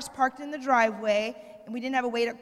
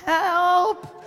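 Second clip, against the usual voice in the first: a louder, higher cry of help; louder mock cry for help; louder call for help; 6 semitones higher, 9 dB louder than usual. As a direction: call out for help, still trying to stay polite. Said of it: "But I don't wanna do, be too crazy".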